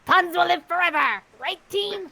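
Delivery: heroic general. Acted. General Sushi battle line.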